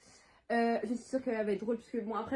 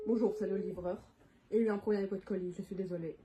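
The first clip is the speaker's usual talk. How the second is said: fake delivery driver; 4 semitones lower, faster than usual. Girl pranking a friend on the phone as a courier, slightly lower voice. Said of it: "faut prendre une autre voix".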